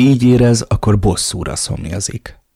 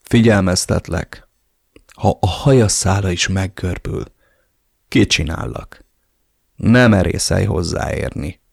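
mild threat. Acted. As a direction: warn him off, cold and steady. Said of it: "fenyegettem meg". (fenyegetően, halkan)

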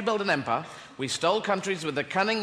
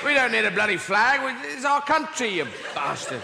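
rising exasperated shout; indignant and fed up; angry retort; 4 semitones higher than usual. Retold or imitated. Locals angrily retort.

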